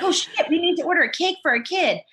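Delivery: a hint of oh-no panic; mock panic. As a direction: blurt it like you just remembered. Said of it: "And I'm like".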